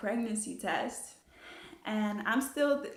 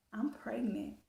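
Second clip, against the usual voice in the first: whispered; 7 dB quieter, slower than usual. Retold or imitated. Telling boyfriend the news.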